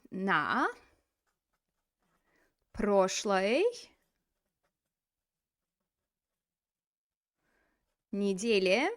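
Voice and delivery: long pauses between На, прошлой and неделе; word by word. Shown as a demonstration. Teacher building the phrase for students, На, прошлой, неделе spaced far apart. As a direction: give На прошлой неделе one word at a time.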